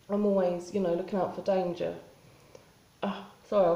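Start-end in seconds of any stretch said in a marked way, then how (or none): 0.1-1.9 talking around a sore mouth ulcer. Real, not acted. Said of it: "I've got a big ulcer in my mouth".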